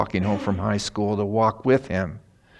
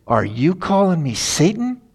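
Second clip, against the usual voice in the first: put-on high, louder indignant drunk; offended drunk; 7 semitones higher, 4 dB louder than usual. Drunk driver indignant at the pastor, mock offended. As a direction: bristle like an insulted drunk.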